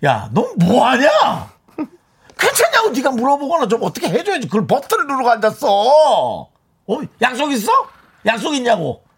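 mock-angry telling-off of someone clueless; acted exasperated scolding. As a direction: rant at him, stretching the key words. Scolding the clueless boyfriend in skit.

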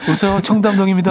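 fast, high posh hello; posh Cheongdam voice. Retold or imitated. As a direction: answer like a rich Cheongdam lady. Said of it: "갑자기 청담동이야".

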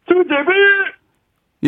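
Jung Joon-ha impression. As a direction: stretch it out in his voice. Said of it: "정준하 씨로 성대모사 할 건데요".

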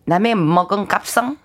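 unsure attempt at Jeju dialect, slow; 제주도 사투리. Shown as a demonstration. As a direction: feel your way slowly through Jeju dialect. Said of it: "제주도". (서툰 제주도 사투리로)

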